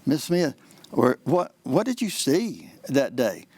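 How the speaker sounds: slow, mildly interested courtroom questioning; lightly acted examining lawyer, unhurried; feigned curiosity. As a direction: ask as if hearing it fresh. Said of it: "act like you've never heard it before".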